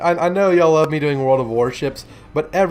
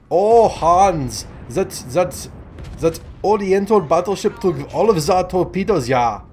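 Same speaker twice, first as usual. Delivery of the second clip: higher, mock German accent; hammed-up German sailor's accent, pitched up; made-up German accent; 5 semitones higher than usual. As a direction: put on a rough, improvised German accent. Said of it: "if this is a German accent".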